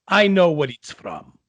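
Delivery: weighty mock irritation; irritated maestro. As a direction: imitate an impatient Italian maestro. Mimicking an irritated opera singer.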